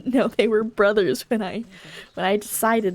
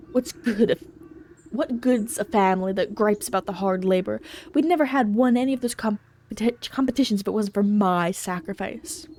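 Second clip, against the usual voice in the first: griping ox farmer. Acted.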